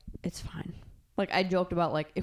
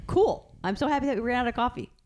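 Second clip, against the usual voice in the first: bright, high, fast mock delight; exaggerated cheer; 6 semitones higher, 4 dB louder, faster than usual. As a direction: gush with overdone glee at the bad news. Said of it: "So see it as".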